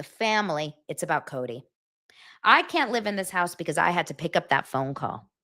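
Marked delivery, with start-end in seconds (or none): 0.9-1.6 breathy stage whisper; hushed whisper naming Cody. Real, not acted. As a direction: whisper it like a secret. Whispered punchline about Cody.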